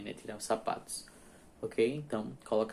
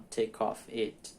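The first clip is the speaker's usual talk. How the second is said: slow and awkward; much slower than usual. Shown as a demonstration. Teacher showing why the wrong order sounds clumsy. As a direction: Take off it dragged out with a pause, uneven. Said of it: "você tem que dar uma pausa".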